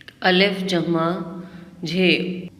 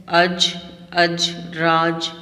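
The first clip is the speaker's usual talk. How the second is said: slow, drawn-out dictation of each word; teacher dictating words for pupils to write, slowly; much slower than usual. Shown as a demonstration. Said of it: "आपके पास पहला word है".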